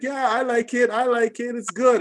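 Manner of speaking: high-pitched imitation of gushing fans; mock approving commenters. Mimicking gushing online comments.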